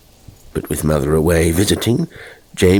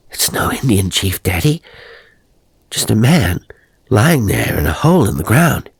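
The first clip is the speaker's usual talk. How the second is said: put-on insistent boy; 3 semitones higher than usual.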